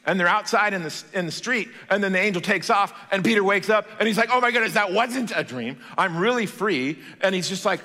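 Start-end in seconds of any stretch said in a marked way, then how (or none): 4.3-7.0 a touch of amazed excitement; mildly acted joyful realization; lightly played relief at being free; excited. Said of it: "so excited".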